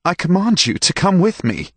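a master used to obedience; commanding master. A narrator's reading. Master orders stable boy.

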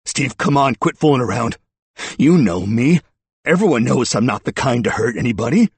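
high, loud, desperate appeal; urgent pleading. A narrator's reading. Suspect racing after the detective, urgent pleading. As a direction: plead with a friend to stop.

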